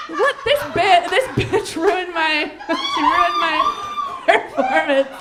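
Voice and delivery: high, loud outraged shout through laughs; hammed-up little-diva fury; mock kid tantrum. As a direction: rage like a kid whose show got ruined. Child furious at sister.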